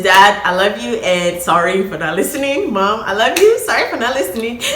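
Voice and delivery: sincere apology. Real, not acted. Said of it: "if they ever watch this".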